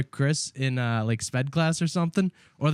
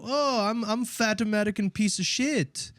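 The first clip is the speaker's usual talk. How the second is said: higher-pitched teasing caricature; mock him back in a raised, silly voice; friend's mocking impression; 7 semitones higher than usual. Eric teasing his friend back, mocking impression. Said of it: "And he would just go".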